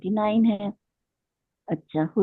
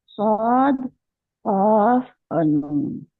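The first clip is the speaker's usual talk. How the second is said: slow; much slower than usual. Shown as a demonstration. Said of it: "एक हर्फी इसमें देखें".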